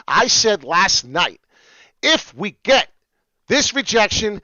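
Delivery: loud, slow, high-pitched excited yell. Real, not acted. Streamer on stream yelling about the chart rejection, loud excited shout. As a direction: shout it out, fired up over the chart. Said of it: "oh, I'm yelling again".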